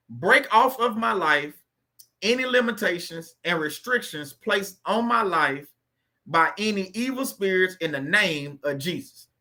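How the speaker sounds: slow, deliberate prayer read aloud. Acted. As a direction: read the prayer slowly so they can repeat. Reads prayers slowly to repeat.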